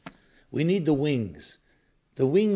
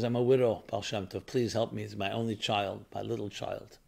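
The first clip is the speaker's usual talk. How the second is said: pleading widow; 4 semitones lower, 4 dB quieter than usual. Acted. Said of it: "And she's crying".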